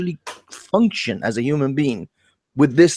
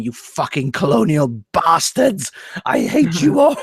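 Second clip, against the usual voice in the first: mock angry rant. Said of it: "looking at every white English person and going".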